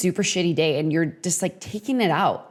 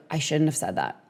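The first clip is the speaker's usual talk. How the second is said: regretful whisper; 4 semitones lower, 5 dB quieter than usual. Retold or imitated. Regretful inner voice.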